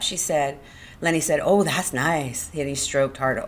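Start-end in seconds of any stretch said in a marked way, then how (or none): 1.4-2.5 slow, contented murmur of delight; simple pleasure. Acted. Lenny stroking her hair, slow contentment. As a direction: savour it slowly.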